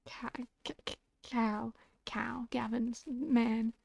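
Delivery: slow unvoiced whisper. Player fumbling a name, whispered. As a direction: breathe the name out slowly.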